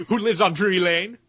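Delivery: lightly voiced cartoon character; a hint of the Shrek cookie voice; Muffin Man question. Continuing the Muffin Man bit.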